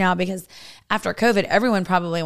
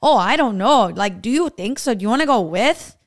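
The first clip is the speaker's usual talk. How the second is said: put-on Pennsylvania cousin accent; 4 dB louder than usual. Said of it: "And they're like".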